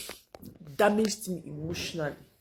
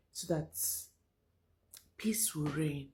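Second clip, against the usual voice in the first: whisper; 3 semitones lower, 8 dB quieter than usual. Real, not acted. Whispered end of bitter remark.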